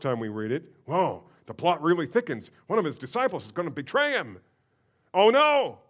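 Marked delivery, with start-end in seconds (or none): 5.1-5.8 loud, high gasp of alarm; hammed-up oh no; mock dismay. Shown as a demonstration. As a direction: cry it out as the shocked reader. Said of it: "you're supposed to say that when you read this".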